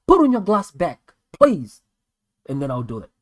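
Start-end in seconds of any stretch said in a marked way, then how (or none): 0.1-1.8 mock request. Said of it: "you can tell me".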